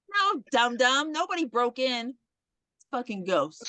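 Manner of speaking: slow, talking-down mock explanation; condescending. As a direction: spell it out slowly, like to a dim kid. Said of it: "she really said it like".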